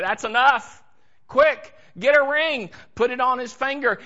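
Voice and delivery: a father bursting with joy; joyful command. Acted. Father joyfully orders servants.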